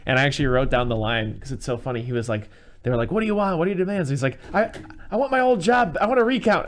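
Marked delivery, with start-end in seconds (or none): 3.1-4.1 mock negotiator. Negotiators voiced in retold scene. 4.5-6.7 much higher, louder whiny demands; mock whiny mayor. Old mayor demanding his job back, high whine.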